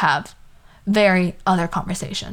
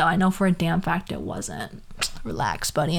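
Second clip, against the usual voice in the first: flat brush-off; 3 semitones lower, 6 dB quieter than usual. Retold or imitated. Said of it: "I'm like".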